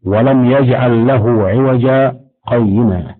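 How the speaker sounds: recited slowly with a pause after عوجا; slow Quranic recitation. Shown as a demonstration. Teacher recites the Kahf pause example, slow recitation. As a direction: pause briefly on عوجا before قيما. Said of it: "في قوله".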